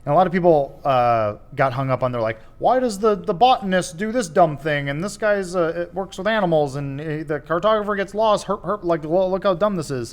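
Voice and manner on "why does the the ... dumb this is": higher-pitched mock complaint; mocking nitpickers. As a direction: mimic people whining about dumb plot points. Mimicking nitpicking viewers' complaints.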